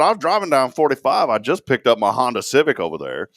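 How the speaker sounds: loud, high complaining customer; mock outraged caller; irate prank caller. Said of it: "I said".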